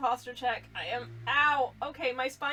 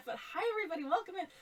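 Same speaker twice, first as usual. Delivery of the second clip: winded, breathless, soft and pitched up; 6 semitones higher, 5 dB quieter than usual. Greeting chat after running up the stairs, out of breath. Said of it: "so I'm a little bit out of breath".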